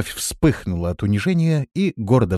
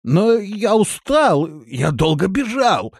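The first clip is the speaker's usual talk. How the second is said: медленно, высоко, хнычуще; заныть как капризный ребёнок; хныкая; 11 semitones higher, 4 dB louder, slower than usual. A narrator's reading. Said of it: "захныкал Рохля". (хныкающим голосом)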